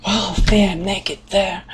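a hint of a baffled outsider, slowed; mock the outsider's shocked thought; puzzled foreigner. Foreigner imagining the banya, mildly baffled. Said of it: "I would think".

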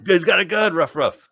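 high, loud talking-dog yelp; barking dog. Acted. Talented poodle warns of a gunman, barking. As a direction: bark the warning like an excited poodle.

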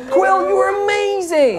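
put-on hyped-up teen gushing praise; high, excited squeal of admiration; Vala. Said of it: "super hyped up teenager".

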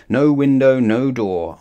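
bright call out loud; loud exclaim. A narrator's reading. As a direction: announce it proudly. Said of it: "he said".

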